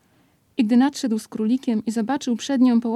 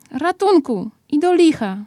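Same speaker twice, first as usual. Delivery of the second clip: high, loud call for help; a stuck bear calling out, half cross; mock cry for help; 6 semitones higher, 4 dB louder than usual. A narrator's reading. Pooh stuck in the hole, crying out again in mock alarm.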